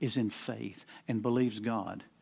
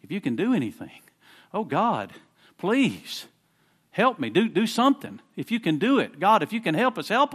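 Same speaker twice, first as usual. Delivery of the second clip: imitating a pleading prayer, rising higher toward the end; desperate plea to God; 5 semitones higher than usual. Preacher voicing a desperate believer's prayer, pleading. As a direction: beg God for help, voice climbing. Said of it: "been in a situation like".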